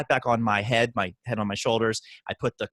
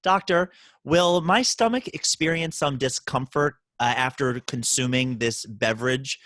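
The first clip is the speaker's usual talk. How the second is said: mock eloquent patient. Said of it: "people were a little more eloquent when they would say".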